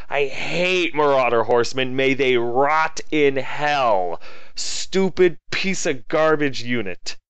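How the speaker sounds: slow, bitter curse; damn the unit, drawn out with contempt; "May they rot in hell" slowed right down; seething rant. Real, not acted. Cursing his failed unit.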